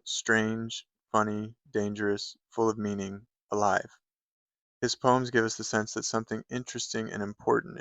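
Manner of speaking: measured read-aloud of a blurb. Acted. Poetry fan reads a blurb to viewers, read-aloud delivery. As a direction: read it out evenly, phrase by phrase.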